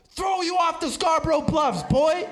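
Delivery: yelling the lyric like a tough guy; hammed-up gangster shout; mock tough yell. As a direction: bark it out as a mock threat. Mock threat in his own voice.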